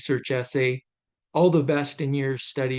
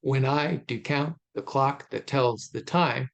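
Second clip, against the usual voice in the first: "when I do count the clock that tells the time" in regular beats on I, count, clock, tells, time; ticking iambic stress. Shown as a demonstration. Lecturer links meter to passing time, ticking iambic stress on "when I do count the clock that tells the time". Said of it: "it's ticking kinda like a clock".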